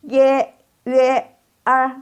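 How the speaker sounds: Y, Y, R as ye, yüe, er, high; model ie, üe, er. Shown as a demonstration. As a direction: hold each of Y, Y, R level and separate. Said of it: "baca sekali lagi".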